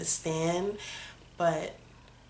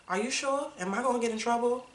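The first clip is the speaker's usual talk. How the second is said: put-on higher, quick, hesitant young daughter; timid mock worry; 6 semitones higher, faster than usual. Daughter asking her father if she may eat, mock timid. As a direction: ask like a kid afraid of getting in trouble. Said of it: "And I was like".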